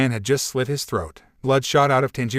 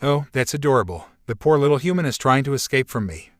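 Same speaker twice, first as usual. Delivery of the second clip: mocking. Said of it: "the man mocked".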